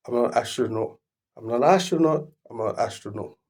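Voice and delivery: imitating emphatic repetition; triple emphasis. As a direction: hammer the line three times. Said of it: "Triple emphasis".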